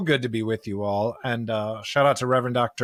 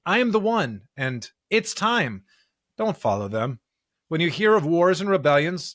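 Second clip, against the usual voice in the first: measured Bible reading, evenly paced; steady, careful liturgical reading; scripture reading; 3 semitones higher than usual. Acted. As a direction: read the gospel aloud to the congregation. Reads the weekly scripture passage.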